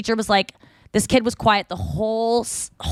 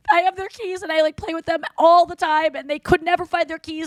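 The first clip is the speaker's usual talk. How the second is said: aunt's voice; 7 semitones higher than usual. Retold or imitated. Aunt explaining the keys.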